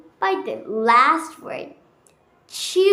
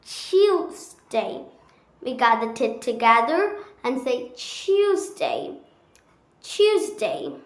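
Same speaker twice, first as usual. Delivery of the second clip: British accent. Shown as a demonstration. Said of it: "We just say it Tuesday".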